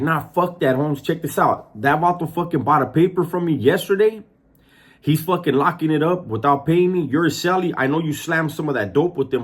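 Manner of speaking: mock-aggressive, high-pitched rant. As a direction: talk over him like a bully demanding payment. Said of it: "and he's aggressive".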